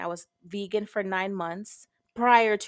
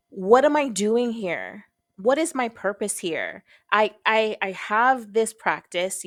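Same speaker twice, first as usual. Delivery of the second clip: guttural plea; 4 dB louder, slower than usual. Retold or imitated.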